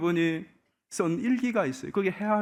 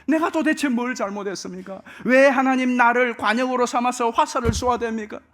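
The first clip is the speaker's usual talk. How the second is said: Job's exasperated protest to God, a bit louder; mock angry complaint; 5 semitones higher, 4 dB louder than usual. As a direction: plead and protest as the wronged man. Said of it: "뿔이 나서 원망을 퍼붓습니다". (억울하게 항변하는 욥, 약간 큰 소리로)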